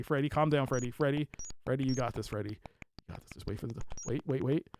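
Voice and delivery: calm him down gently; soothing hush. Real, not acted. Streamer hushing Freddy to calm him before the jump.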